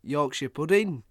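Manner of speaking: loud bursts of mock menace; angry telling-off. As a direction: order a rebellious pudding about. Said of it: "He's like".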